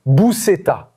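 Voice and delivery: « Buceta » said carefully, falling; word demo. Shown as a demonstration. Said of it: "La buceta". (« Buceta » prononcé avec soin)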